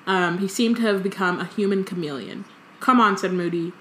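lively story reading, quotes lightly voiced; reading aloud. A narrator's reading. Co-host reads the chapter aloud, lively storytelling. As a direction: read the book to a friend.

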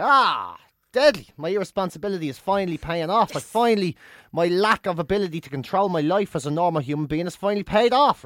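retold delight, swelling at start and end. Passenger retells getting upgraded, mock delight. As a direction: celebrate with mock pride. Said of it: "I was there".

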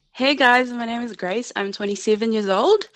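put-on a light New Zealand accent; Kiwi accent. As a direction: lean into a Wellington Kiwi accent. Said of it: "Can we hear your Kiwi accent?".

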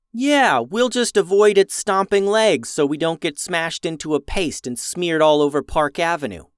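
dry mock agreement; deadpan sarcasm, lightly played; sarcastic. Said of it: "said Rafa sarcastically".

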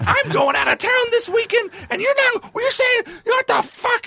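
very high, strained ranting scream; mock tirade at the top of the voice; imitated screaming. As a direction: act out a boss screaming in outrage. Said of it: "instantly screaming".

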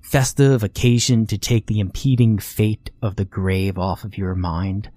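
put-on a know-it-all boy talking down to his little sister; smug morbid lecture.

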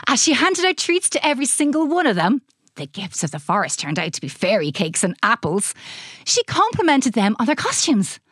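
usual speaking voice

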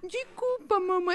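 put-on high, laughing little-girl voice; a child's small apology through laughter; little girl apologizing. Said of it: "Ela fica assim". (voz de criança pedindo desculpa, rindo)

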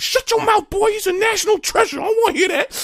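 high, loud indignant scolding; mock angry commenters. Imagined comment section scolding him about his dad, high and loud. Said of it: "everybody in the comments would be like".

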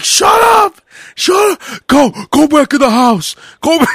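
high, loud yelling back at mom; angry shout. Retold or imitated. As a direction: brother telling mother to go inside. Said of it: "He's like".

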